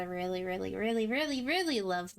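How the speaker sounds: "really" repeated in a run, rising toward the last ones; emphatic repeated REALLY. Real, not acted. Gamer gushing over a favourite game, stressing every "really". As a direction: pile up each "really" for emphasis. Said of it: "emphasize how much I love it".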